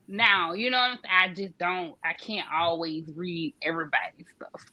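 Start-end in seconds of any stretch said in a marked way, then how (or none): 1.3-4.6 whispered, soft confession; hushed whisper of a small admission; whispered aside. Real, not acted. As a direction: let it slip out under the breath. Confessing aside under breath.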